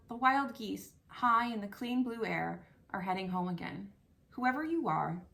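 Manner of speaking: heartfelt poem recital; reading a poem aloud. Shown as a demonstration. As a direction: read it like you mean every line. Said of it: "I'm gonna read it".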